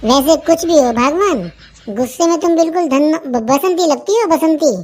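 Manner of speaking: butter her up slowly; husband sweet-talks angry wife, slowly; sweet-talking. Acted.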